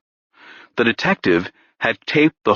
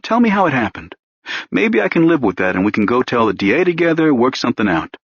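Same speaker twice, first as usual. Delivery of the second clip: a hint of a needling cop, rising higher as he pushes; lightly voiced pushy detective; 5 semitones higher than usual. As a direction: coax the confession out, mockingly patient. Detective Renner pressing his suspect.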